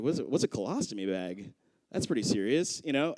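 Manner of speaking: low, soft imitation of a worried patient; timid question. Young patient asking nurse about the bag, timid. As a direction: ask it small and subdued.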